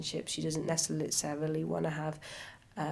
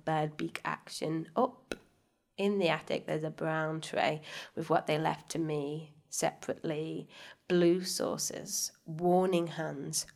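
poetry reading. Acted. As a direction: read the poem with weight. Reads her poem aloud.

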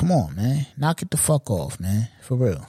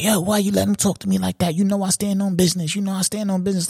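higher-pitched imitation of a protesting son; mock indignant protest; 5 semitones higher than usual. Son protesting to his moms, mock indignant. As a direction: complain in a raised pitch, as if mimicking him.

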